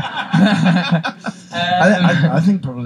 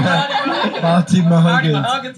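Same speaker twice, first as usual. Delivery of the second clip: put-on slow goofy Southern accent; 3 semitones higher, much slower than usual. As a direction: drag out the name in a Southern drawl. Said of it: "There it is, Southern".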